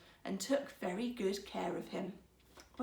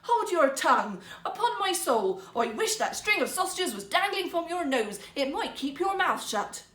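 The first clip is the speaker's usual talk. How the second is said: higher, much louder, furious shout; angry shout; 7 semitones higher, 7 dB louder than usual. A narrator's reading. Woodcutter shouting back at his nagging wife. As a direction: shout her down.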